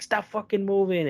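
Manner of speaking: high-pitched imitation of a cop's command; retold order, pitched well up but not shouted; mock barked order. Cop to a man on the ground, mock barked order.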